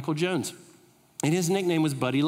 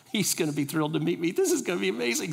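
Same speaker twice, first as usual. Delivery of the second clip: mock excited; faster than usual. Joking boast, rushing excitedly.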